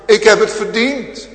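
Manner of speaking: fervent shouted admission; loud preaching cry. Acted. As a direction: hurl the guilt from the pulpit. Same confession, now cried out.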